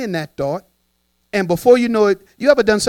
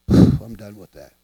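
deep letting go; 9 semitones lower, 5 dB louder, slower than usual. Shown as a demonstration. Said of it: "demo letting go".

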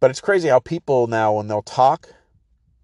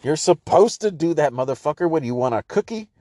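Chris Rock impression; 5 semitones higher than usual. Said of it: "Chris Rock joke where he's like".

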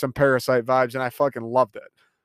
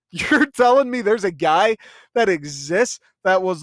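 higher, disbelieving rant with a laugh in it; incredulous; 3 semitones higher than usual. Real, not acted. Reviewer amazed someone thought up this plot, incredulous. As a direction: pitch it up in amused disbelief.

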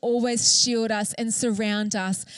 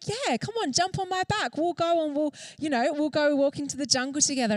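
a lightly voiced lion, much higher and breezy; friendly lion; 4 semitones higher than usual. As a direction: play the lion as easygoing and welcoming. Lion invites mouse in fable.

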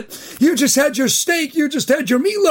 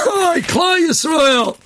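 laughing greeting; 4 semitones higher, much slower than usual. Real, not acted. Greeting after laughing fit.

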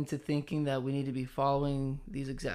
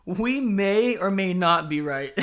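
laughing, louder and drawn out; 4 semitones higher, 7 dB louder, slower than usual. Real, not acted. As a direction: say it through a laugh. Laughing disclaimer.

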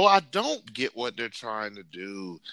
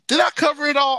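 excited; 9 dB louder, faster than usual. Real, not acted. Excited wrap-up of plugs.

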